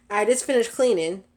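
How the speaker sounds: laughing through the words; chuckling as she speaks. Real, not acted. Laughing while talking.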